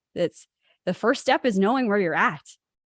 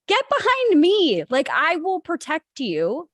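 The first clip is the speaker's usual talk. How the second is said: protective command; 8 semitones higher, 5 dB louder than usual. Retold or imitated. Protecting terrified lady from snake.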